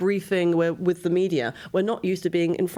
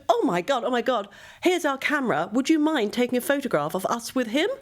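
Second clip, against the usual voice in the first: excited tourists; 6 semitones higher than usual. Retold or imitated. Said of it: "these American tourists said".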